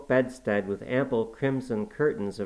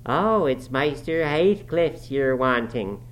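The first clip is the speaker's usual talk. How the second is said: slow, higher surprised dialect voice; mock discovery; 4 semitones higher, 4 dB louder, slower than usual. A narrator's reading. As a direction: act as if it's news. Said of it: "as if making a new discovery".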